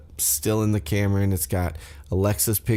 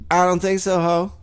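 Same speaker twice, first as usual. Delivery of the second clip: high-pitched sassy comeback, imitating; mock-diva brush-off, pitched way up; catty retort; 3 semitones higher than usual. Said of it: "they get a little catty".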